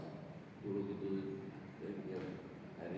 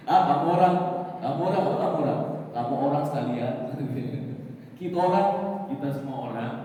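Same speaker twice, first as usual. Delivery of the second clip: lively, loud Papuan-style chatter; playful Papuan accent; 6 dB louder than usual. Retold or imitated. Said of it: "Kayak orang Papua".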